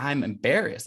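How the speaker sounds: ordinary delivery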